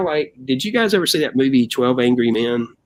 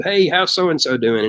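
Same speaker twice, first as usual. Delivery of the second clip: higher, slow casual question; pitched-up slow question at a meeting; executive asking; 6 semitones higher, slower than usual. Retold or imitated. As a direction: drawl it out like a bored boss. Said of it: "and they said".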